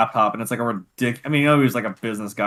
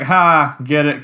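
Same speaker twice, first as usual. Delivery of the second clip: loud mocking "ha"; 3 semitones higher, 7 dB louder, much slower than usual. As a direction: jeer at the joke. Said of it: "I was like".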